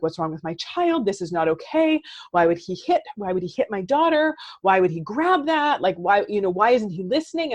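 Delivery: a worked-up mom demanding answers; upset parent. Retold or imitated. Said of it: "get all upset and be like".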